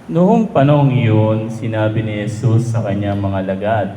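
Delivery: measured liturgical reading voice; gospel reading. Acted. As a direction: priest reading the gospel at mass.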